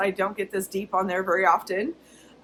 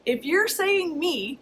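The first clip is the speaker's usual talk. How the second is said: slow, pitched-up infomercial pitch; 5 semitones higher, slower than usual. Shown as a demonstration. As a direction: sell it like a TV ad host. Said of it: "don't I sound like an infomercial?".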